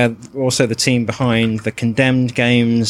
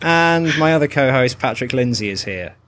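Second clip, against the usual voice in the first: put-on American accent, falling away at the end; playful fake American accent; mock American accent. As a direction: introduce a co-host as a pretend American. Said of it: "introduce the show in an American accent".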